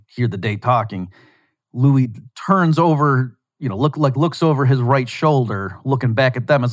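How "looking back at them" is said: usual speaking voice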